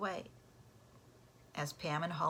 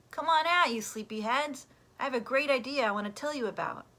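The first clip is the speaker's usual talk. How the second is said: higher, louder, fast eager call; 6 semitones higher, 7 dB louder than usual. Acted. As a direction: rouse the sleepyheads from above. Pete calling down from window.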